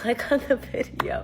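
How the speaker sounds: embarrassed whisper through a laugh. Real, not acted. Telling viewers the awkward part, whispered. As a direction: breathe it, too awkward to say aloud.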